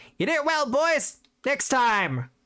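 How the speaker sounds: very high, tiny little gremlin creature voice. Voicing a tiny gremlin-like creature riding off: tiny gremlin-like creature voice. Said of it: "this tiny little gremlin-like creature standing up from the throne being like".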